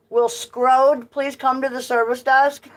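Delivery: store PA announcement voice; flat echoey pa page. Retold or imitated. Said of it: "have 'em paged".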